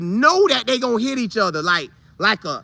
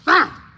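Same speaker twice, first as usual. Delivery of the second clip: battle shout; 7 semitones higher than usual. Retold or imitated. Players' battle cry.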